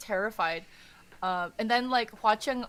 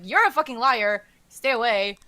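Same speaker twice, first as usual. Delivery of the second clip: louder, lightly acted outburst; mock a frightened accusation; terrified accusation; 7 dB louder than usual. Prince accuses his companion of lying, terrified. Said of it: "like, terrified because".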